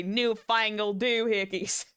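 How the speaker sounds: quoting in a Southern twang; twangy Southern echo of the cowboy. Retold or imitated. Streamer mocking own line, Southern twang. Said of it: "I go into the southern twang".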